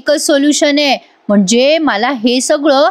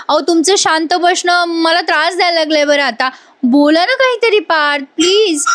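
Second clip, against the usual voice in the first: pleading; 5 semitones higher than usual. Retold or imitated. Wife pleading with silent husband.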